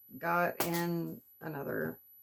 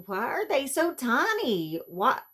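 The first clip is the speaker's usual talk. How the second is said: laughing disbelief; 7 semitones higher, 5 dB louder than usual. Real, not acted. Laughing at tiny products.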